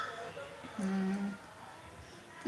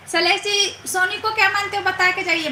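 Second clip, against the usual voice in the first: insistent teasing; 5 semitones higher, faster than usual. Acted. Pestering guest for an answer.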